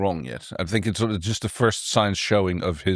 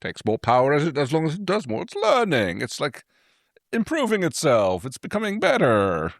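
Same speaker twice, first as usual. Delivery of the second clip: higher, eager brushing-off; hammed-up excuse-making scientist; mock defensive inventor; 5 semitones higher than usual. Mocking Daystrom's defensive reply.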